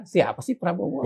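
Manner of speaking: slow, belittling question; dismissive sneer at a name; condescending. Shown as a demonstration. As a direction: ask it as if he's nobody worth knowing. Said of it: "ada unsur, eh, apa namanya, merendahkan".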